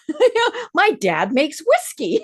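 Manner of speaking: chuckling as the punchline lands; laughing. Real, not acted. Retelling a funny school moment.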